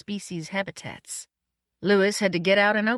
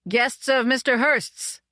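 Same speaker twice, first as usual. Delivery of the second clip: raised, higher calling voice; shouted; 6 semitones higher, 4 dB louder, slower than usual. A narrator's reading. Guest announcing himself at the gate, shouted. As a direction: call it out slowly and higher. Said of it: "I shouted".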